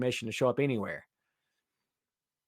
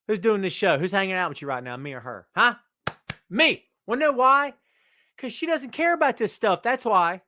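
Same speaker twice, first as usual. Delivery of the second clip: mock defiant brag; 5 semitones higher, 4 dB louder than usual. Real, not acted. Playful boasting to chatter.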